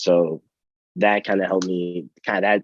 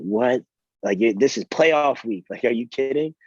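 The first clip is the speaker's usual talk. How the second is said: retold frustration; 5 semitones higher than usual. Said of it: "I was so mad".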